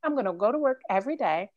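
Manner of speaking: rushing forced optimism; fast determined inner voice. Retold or imitated. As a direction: talk fast, forcing cheer. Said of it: "So you're like".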